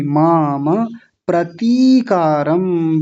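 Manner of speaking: माम प्रतीकारम said very slowly with a long आ; long vowel. Shown as a demonstration. Teacher modelling the long vowel, very slow. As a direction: stretch the आ in माम. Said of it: "बड़ी की मात्रा है".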